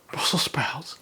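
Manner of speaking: hushed mock disgust, a whisper; whispered disbelief. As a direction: whisper it like a horrified guest. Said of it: "people are going".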